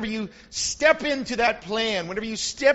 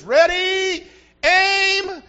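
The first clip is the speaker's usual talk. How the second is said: shouted high, loud firing-squad order; general's command; 10 semitones higher, 7 dB louder, much slower than usual. Retold or imitated. General yelling at his firing squad, loud shout.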